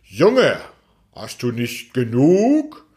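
leicht gesprochener, milder alter Mond; guter alter Mond. Acted. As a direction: ein Hauch eines gütigen alten Mondes. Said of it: "fragte er ihn ein um das andere Mal". (der Mond fragt den Jungen leicht mahnend)

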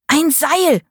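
high shriek for a rope. A narrator's reading. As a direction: shriek it out in panic. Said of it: "kreischte er".

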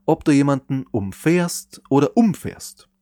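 erst "umfährst" auf -fährst betont, dann "umfährst" auf um- betont; "umfährst" zweimal, langsam, mit wechselnder Betonung; Betonungsunterschied. Shown as a demonstration. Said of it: "einen großen Unterschied". (Betonung wandert von -fährst auf um-)

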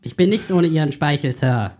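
lightly voiced eager subordinate; hammed-up yes-sir soldier; clipped nasal officer. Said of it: "machen wir kurz einen Bundeswehr-Podcast nach".

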